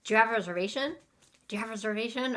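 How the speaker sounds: attempted quick restaurant question; said fast. Shown as a demonstration. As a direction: rattle it off like a busy host, not too rushed. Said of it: "so fast".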